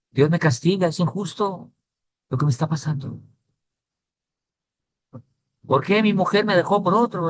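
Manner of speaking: high mock whine, imitating a crying boy; imitando llanto. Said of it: "me decía, llorando". (imitando un lamento lloroso, agudo)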